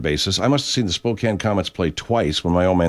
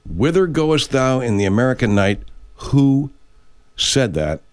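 dramatic quiz question; 2 semitones higher than usual. Shown as a demonstration. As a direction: pose it grandly, pausing after WHO. Quiz question repeated for effect.

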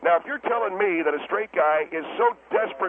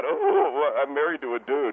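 mocking; 4 semitones lower than usual. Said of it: "Then why are you mocking".

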